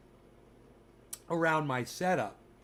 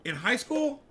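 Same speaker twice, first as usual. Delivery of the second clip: high, rising indignant question; hammed-up offended echo; mock disbelief; 8 semitones higher than usual. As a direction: throw it back as if scandalised. Mock offence at viewer's remark.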